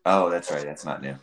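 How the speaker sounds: thin speakerphone audio. Real, not acted. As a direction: heard through a speakerphone. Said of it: "so we're on speakerphone".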